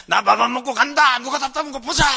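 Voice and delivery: high, loud bratty yell; mimicked child's defiant threat; defiant runaway child. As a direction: shout it back like a kid running off. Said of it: "도망가면서 했던 말".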